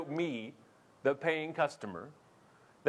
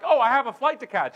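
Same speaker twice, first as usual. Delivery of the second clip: loud, higher-pitched imitation of a line-jumper; mock self-important traveller; 8 semitones higher, 9 dB louder than usual. Imitating guy with a flight to catch, loud mock urgency. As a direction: push it out loud and high, as an imitation.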